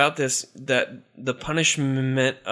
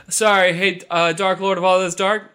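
timid minion; 4 semitones higher, 4 dB louder than usual. Acted. Demon corrects himself timidly.

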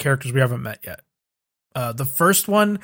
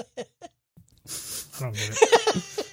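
high squeal of laughter; laughing; 5 dB quieter, much slower than usual. Real, not acted. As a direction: laugh through the words. Laughing while speaking.

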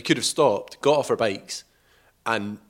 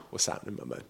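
whisper; 3 semitones lower, 10 dB quieter, much faster than usual. Retold or imitated. Joking aside to dad in retelling.

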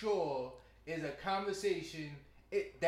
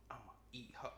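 whispered low voice; 7 semitones lower, 11 dB quieter than usual. Retold or imitated. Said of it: "I don't like saying".

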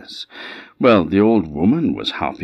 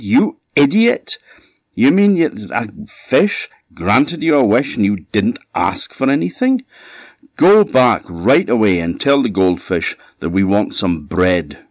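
furious wife; 5 semitones higher, 5 dB louder than usual. Acted. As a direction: berate the old man for wasting the wish. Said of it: "she was furious".

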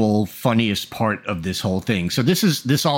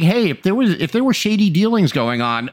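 mock Trump; 7 semitones higher, 3 dB louder than usual. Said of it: "He is basically saying".

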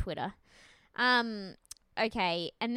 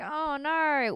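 higher, louder mock dismay; retold dismay; 6 semitones higher, 5 dB louder than usual. Bachelor learning he must wait, hammed-up dismay. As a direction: play up his letdown.

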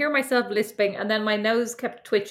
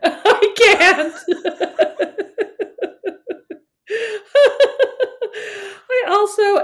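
laughing; 12 semitones higher, 6 dB louder, slower than usual. Real, not acted. Accent attempt breaks into laughter.

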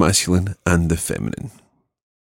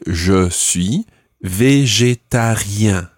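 slow model phrase; much slower than usual. Shown as a demonstration. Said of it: "So, I would say".

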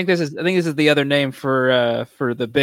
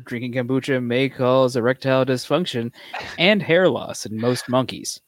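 pharmaceutical ad. Pretend. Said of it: "sounded like a drug commercial".

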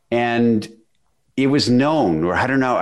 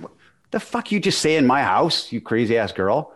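retold furious challenge; 2 semitones higher than usual. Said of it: "I said".

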